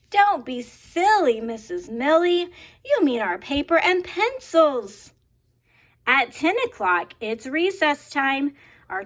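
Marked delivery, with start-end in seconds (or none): 0.1-5.1 put-on amused children. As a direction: tease the teacher like giggling pupils. Children correct teacher.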